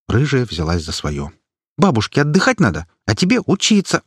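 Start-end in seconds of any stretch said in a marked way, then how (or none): 1.8-4.0 put-on much higher reproach to the boy; shaming scold. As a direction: shame the boy. Activist lecturing boy.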